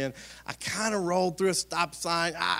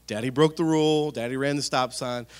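sheepish apology; 2 semitones lower, 3 dB louder than usual. Retold or imitated. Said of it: "kinda explain".

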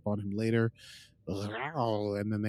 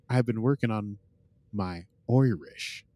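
slow, careful attempt at Irish; attempted Irish accent. Shown as a demonstration. Host showing off practised accent to cohost, shaky-skilled Irish. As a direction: try out an amateur Irish accent.

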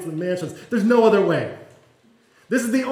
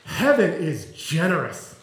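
gentle reassurance; slower than usual. Retold or imitated. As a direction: reassure a ten-year-old that heaven is wide open. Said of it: "someone coming to me and saying".

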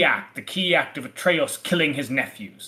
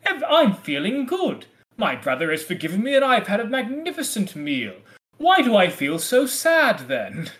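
mock contented Thyestes; 3 semitones higher than usual. Host voicing Thyestes after his meal, mock cheer turning puzzled. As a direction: put on blithe contentment that turns puzzled. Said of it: "we have Thyestes sitting there saying".

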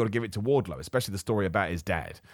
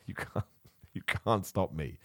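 mock menacing voice; 4 semitones lower, 8 dB quieter, slower than usual. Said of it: "I shouldn't talk like that".

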